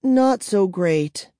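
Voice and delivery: glum. Acted. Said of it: "Kara replied glumly".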